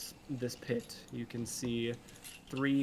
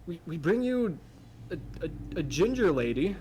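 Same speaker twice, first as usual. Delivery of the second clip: booming high announcer voice, loud and showy; arena announcer; 5 semitones higher, 6 dB louder than usual. Acted. Arena announcer addressing the crowd, booming and showy. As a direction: ring announcer hyping the crowd to the fights. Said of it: "And he begins".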